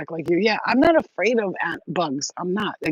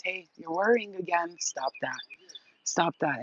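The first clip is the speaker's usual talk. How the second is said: gentle scolding; 7 dB quieter than usual. Pretend. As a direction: hush the worry softly. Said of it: "I want you to hear my voice".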